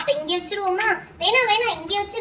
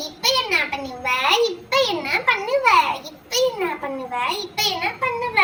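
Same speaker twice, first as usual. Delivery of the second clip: sing-song taunt. Acted. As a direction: gloat in a see-saw tune. Taunting opponent after a move.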